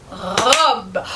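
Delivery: "Robe" said as a single clear beat; said as one syllable. Shown as a demonstration. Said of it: "On va essayer robe". (« Robe » dit en une seule syllabe)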